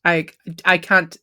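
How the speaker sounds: a hint of a camp shopkeeper, darting and flustered; flustered satyr. Satyr overwhelmed by the robot's quest, lightly camp. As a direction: fuss over the stranger like a camp satyr.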